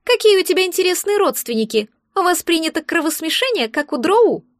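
mock her with a smug little jab; snide egg creature.

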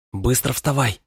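hissing a hurried command; urgent hiss at him; hissed urgent order. A narrator's reading. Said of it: "шипит она".

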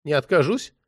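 usual speaking voice

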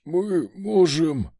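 сдавленный хрип без воздуха; прохрипи задыхаясь. A narrator's reading. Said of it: "прохрипел глава ордена". (хрип задушенного человека)

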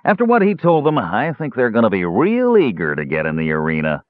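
lightly sneering dwarf voice; a touch of sneer. Acted. Dwarf taunts Caramon about his friends, light sneer. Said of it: "the dwarf sneered".

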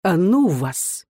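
медленно, с досадой отмахнись; махни рукой на суд; угрюмо. A narrator's reading. (Букин угрюмо отмахивается)

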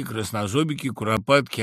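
ordinary delivery, nothing marked

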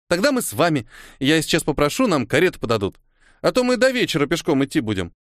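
put-on chatty little girl. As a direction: play a decisive little girl, lightly. Narrator voices bossy girl Kora.

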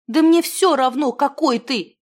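звонко и громче, с напором; девушка твёрдо отстаивает своё; решительно заявляя. A narrator's reading. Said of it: "заявила девушка". (решительно, громко)

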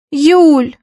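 plaintive, high, dragging the name; whiny drawn-out call. A narrator's reading. Girl whining to her friend for help. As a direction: whine her friend's name like a sulking child. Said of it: "плаксиво протянула она".

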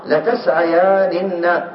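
slow demo form. Shown as a demonstration. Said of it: "إذن توالت الأمثال".

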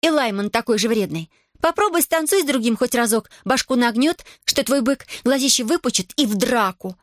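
put-on high lively girl's voice; gossiping young woman, amused; chatty village girl. A narrator's reading.

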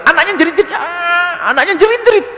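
put-on high, laughing squeal over the screaming child; laughing mock shriek. Ustadz laughing about a baby shrieking in the mosque, high squeal.

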